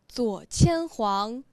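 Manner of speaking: measured recitation with held endings and pauses; 诗词朗诵. Shown as a demonstration. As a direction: recite deliberately, phrase by phrase. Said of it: "你试一下". (一句一顿地朗诵)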